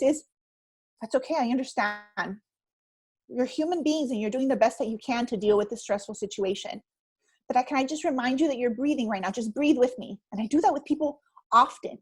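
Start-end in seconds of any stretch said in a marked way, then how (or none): 1.0-10.2 calm them with mild, soothing words; gentle reassurance. Acted. Coach to a stressed client, gently reassuring.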